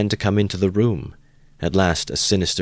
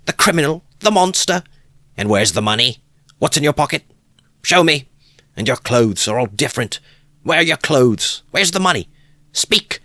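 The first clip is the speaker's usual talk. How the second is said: high, loud, frantic shouting; frenzied scolding; 11 semitones higher, 5 dB louder than usual. A narrator's reading. Wife screams at her drunk husband, frantic and furious. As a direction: rail at him in a frenzy. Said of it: "she cried out in a frenzy".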